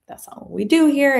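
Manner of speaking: firm objection. Retold or imitated. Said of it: "And I'm like".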